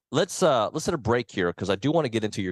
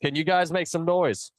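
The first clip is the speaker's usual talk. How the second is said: hype man call; 9 semitones higher than usual. Acted. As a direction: whip the crowd up, stretching it out. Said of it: "Come on, that wasn't good".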